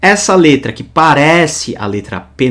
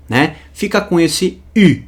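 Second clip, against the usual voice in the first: usual speaking voice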